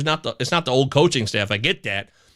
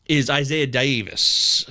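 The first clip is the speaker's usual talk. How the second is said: weird delivery; 4 semitones lower, slower than usual. Real, not acted. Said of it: "Why did I say it like that?".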